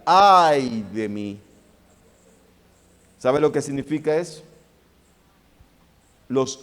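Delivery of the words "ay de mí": lament. Acted. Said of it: "la exclamación del profeta".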